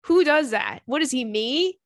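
loud, mock-outraged question; loud disbelief. Real, not acted. Outraged joke.

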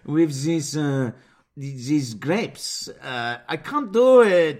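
slow, halting bad French accent; attempted French accent. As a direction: struggle through a fake French accent.

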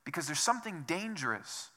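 a soft, caring warning from a friend; loving and gentle. Retold or imitated. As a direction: caution them gently, like you love them. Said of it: "saying lovingly, gently".

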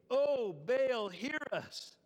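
mock cry out to a deity; calling on a god. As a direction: call out as if to a distant god. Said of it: "they called on the name of Baal".

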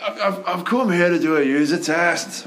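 put-on half-hearted Scottish accent that breaks into a laugh; bad Scottish accent. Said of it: "You were walking towards doing a Scottish accent".

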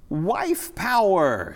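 loud, high, drawn-out cry; triumphant exclamation. A narrator's reading. Woman clown announces her cause to the others, loud drawn-out exclamation. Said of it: "she exclaimed".

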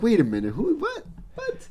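confused surprise. Retold or imitated. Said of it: "I'm like".

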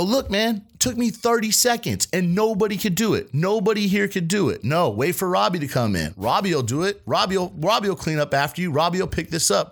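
high-pitched retold smart-ass complaint; smart-ass needling. Cook razzing coworker who skipped the job, smart-ass. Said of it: "Just being a smart ass".

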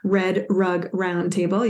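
each word set apart carefully; careful, slow articulation. Real, not acted. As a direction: say it slowly, like a tongue twister. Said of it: "You gotta say that slowly".

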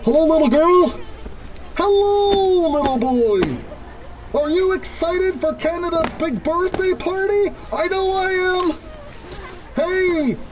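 put-on sing-song, slow hello to the children; a lightly put-on kids' entertainer voice; cheery mascot voice. Mark in costume greeting little kids, cheery mascot voice.

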